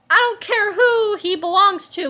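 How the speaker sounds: brusque interruption; interrupting. A narrator's reading. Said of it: "Melvin interrupted".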